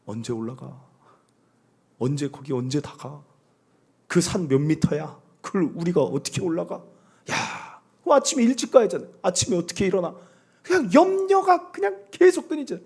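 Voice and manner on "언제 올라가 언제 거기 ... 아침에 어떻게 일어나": a hint of a fretful complainer, softer; mildly whiny worrier asking when; worried hiker. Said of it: "염려하는 사람들 이래요". (걱정 많은 등산객 흉내)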